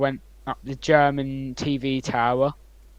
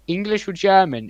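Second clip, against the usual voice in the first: imitating a German man's strong American accent, a bit higher and louder; mock American accent from a German tour guide; 7 semitones higher, 7 dB louder than usual. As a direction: ask it in a broad American accent. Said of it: "in, like, the most American voice ever".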